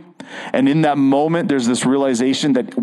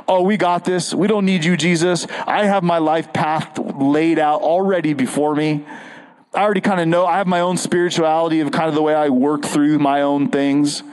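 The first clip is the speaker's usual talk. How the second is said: lightly raised, breezy know-it-all voice; mock smug Pharisee; 3 semitones higher than usual. Preacher mocking the self-sure Pharisees, breezy and smug. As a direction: brush Jesus off like you've got it all figured out. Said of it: "That's the Pharisees".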